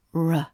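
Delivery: "R" barely suggested, not rolled; just hint at the "R"; soft British R. Shown as a demonstration. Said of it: "just a suggestion of the sound".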